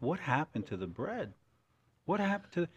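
baffled rising searching; confused. Retold or imitated. Host searching for his missing bread, baffled. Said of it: "and I'm like".

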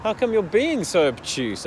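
high-pitched, exasperated disbelief; incredulous. Retold or imitated. Son who can't understand his dad's doubt, incredulous. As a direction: act out baffled indignation, drawing out the question.

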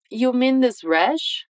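slow rising question. Shown as a demonstration. Teacher models James's question slowly. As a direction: ask it slowly, lifting at the end. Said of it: "Ele começa com".

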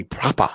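"proper" said as "proppah", R dropped; English dropped R. Retold or imitated. Showing how an Englishman says it, "proper" with no R. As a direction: say "proper" English-style, ending in "ah". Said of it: "If you ever hear a proper".

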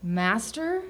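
soft, questioning submission; small hesitant query; tentative question. A narrator's reading. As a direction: ask it meekly, voice dropped.

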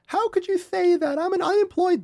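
high mock clown voice, way up; clown character quote. Quoting the clown from the intro, high mock voice. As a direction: squeak it out like the clown. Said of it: "He's like".

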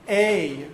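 A said as long AY; tsere sound. Shown as a demonstration. Teacher showing Lithuanian pronunciation of cholam, tsere sound. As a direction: demonstrate A as the vowel in "say". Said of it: "the same as the tsere sound".

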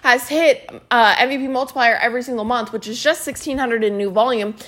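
emphatic, enthusiastic praise; excited recognition. Shown as a demonstration. Coach demonstrating how to recognize a teammate, excited. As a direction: gush over a teammate's win. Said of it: "Do you see the difference?".

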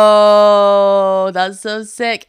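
a big, loud "Whoa" then back down; impressed whoa. Retold or imitated. Quoting her friends being wowed by whiskey, loud exclamation. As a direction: blurt out the wow like two amazed mates.

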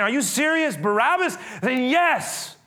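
high-pitched mock disbelief; incredulous. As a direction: act out a stunned bystander's question. Voices incredulous crowd member.

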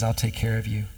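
a touch of tender reassurance; spoken kindly. Retold or imitated. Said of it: "he speaks to them kindly".

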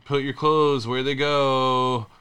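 lightly mimicked exasperated spouse; mock nagging. Husband imitating wife's complaint about clothes, lightly mock nagging. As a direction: imitate a nag, stretching the words.

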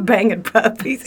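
slow, laughing and cringing; laughing disgust. Real, not acted. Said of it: "I feel so gross saying that".

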